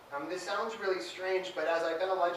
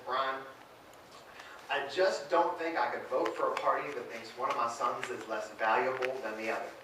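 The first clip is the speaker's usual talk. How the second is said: put-on low-pitched Southern-accented dad; 5 semitones lower than usual. Republican father talking to his gay son, Southern accent. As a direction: imitate a Southern father's measured heart-to-heart. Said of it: "great Southern accent".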